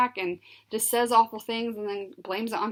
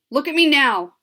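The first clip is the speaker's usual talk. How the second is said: loud, stern, a notch higher; mom's voice that means business; death voice; 4 semitones higher, 9 dB louder than usual. A narrator's reading. Mother ordering her daughter to look at her, loud stern command. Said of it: "This is the death voice".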